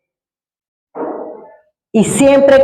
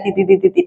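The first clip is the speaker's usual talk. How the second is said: latidos imitados; 4 semitones lower, 4 dB quieter, faster than usual. Retold or imitated. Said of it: "el corazón se me salía".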